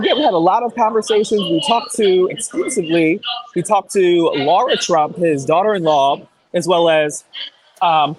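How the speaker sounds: out of breath after climbing steps; short of breath, talking between gasps; gasping for air. Real, not acted. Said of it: "I'm out of breath".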